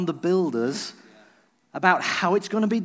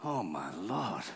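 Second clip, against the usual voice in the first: mock panic; 11 semitones lower, 12 dB quieter, slower than usual. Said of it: "I went into panic mode".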